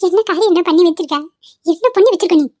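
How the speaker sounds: shocked reproach, voice rising; appalled scolding. Acted. Mother confronting son over his attack, appalled. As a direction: demand to know what he has done.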